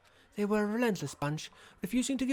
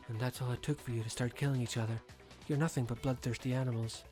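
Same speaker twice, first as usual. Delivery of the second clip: cold contempt; 6 semitones lower, 7 dB quieter than usual. Acted. Villain disdains captives.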